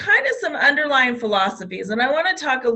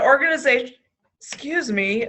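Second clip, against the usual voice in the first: hiccups; 3 semitones higher than usual. Real, not acted. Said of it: "love it when you get hiccups".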